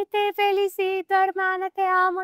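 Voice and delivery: hermana emocionada, aguda y lenta; gushing sister. Retold or imitated. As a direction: imita a la hermana llorona con voz alta y lenta. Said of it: "mi hermana se enteró y me dice". (la hermana felicita emocionada, con voz alta y lenta)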